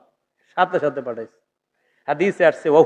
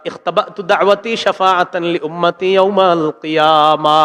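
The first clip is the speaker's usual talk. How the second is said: melodic chant with long held vowels; measured sung recitation; hadith recitation; slower than usual. Acted. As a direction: intone the hadith in a preacher's sing-song.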